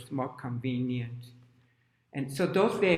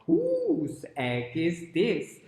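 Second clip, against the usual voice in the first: tag; 3 semitones higher, 4 dB louder, much slower than usual. Acted. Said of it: "And she said".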